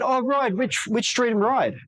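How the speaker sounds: high, quick, curious question. Shown as a demonstration. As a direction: lift your voice way up and ask lightly. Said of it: "your voice goes up. It's a higher pitch".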